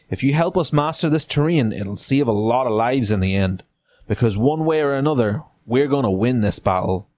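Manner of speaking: lightly voiced Southern officer; Frank Underwood accent. Officer recruiting a local guide, light Southern accent. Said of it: "That's a Frank Underwood accent".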